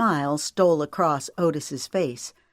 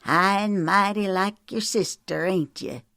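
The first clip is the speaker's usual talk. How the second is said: snarling; 3 semitones higher than usual. A narrator's reading. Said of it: "Otis snarled".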